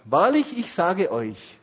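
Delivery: loud, slow, weighty proclamation of the verse; solemn scripture reading. Shown as a demonstration. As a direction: read it out like a pulpit announcement. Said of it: "Jetzt steht in Matthäus elf elf". (feierlich und langsam vorgelesenes Bibelwort)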